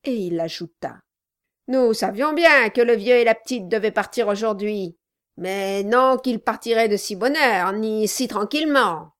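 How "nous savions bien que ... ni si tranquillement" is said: gruff gravelly dwarf voice. Acted. Dwarf explaining to Brass.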